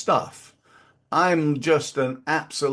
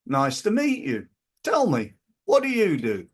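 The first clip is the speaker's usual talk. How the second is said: friendly networking intro. Shown as a demonstration. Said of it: "I'm gonna go".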